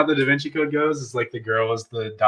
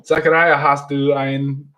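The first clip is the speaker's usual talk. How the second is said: German soap actor; 2 semitones higher than usual. Retold or imitated. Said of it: "it was all in German".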